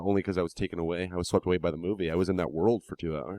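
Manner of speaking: dry, understated sarcasm; a little sarcastic. Real, not acted. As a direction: feign being enchanted, deadpan. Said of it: "I was being a little sarcastic".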